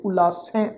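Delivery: ਉਲਾਸੈ with a nasalized final "ai"; nasal ending. Shown as a demonstration. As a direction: finish ਉਲਾਸੈ on "sain", vowel through the nose. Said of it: "ਨਾਲ ਬਿੰਦੀ ਸਹਿ ਨਾਸਕੀ ਪਾਠ". (ਉਲਾਸੈ ਦਾ ਅੰਤ ਬਿੰਦੀ ਸਹਿਤ ਨਾਸਕੀ)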